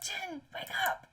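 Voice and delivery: a hushed slow call; quiet urgent call. Acted. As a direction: nudge a sleeper gently awake. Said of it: "I'm like".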